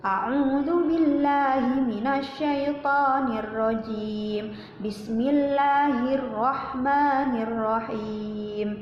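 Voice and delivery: slow, measured chanting recitation; teacher chanting the opening formulas for children; Quran recitation. Shown as a demonstration. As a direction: recite it slowly and reverently.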